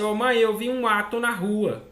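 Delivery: put-on a child saying "ato" with the r dropped, "rua" kept; lightly voiced child dropping the r in "ato"; mild child voice, "ato" said without the initial r; child's mispronunciation. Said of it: "fala assim".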